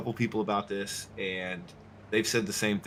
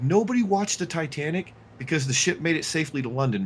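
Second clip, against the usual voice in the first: mild mock yell, raised pitch; retold yell; 5 semitones higher than usual. Streamer retelling his rant at the guy, mild raised voice. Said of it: "I yelled at him".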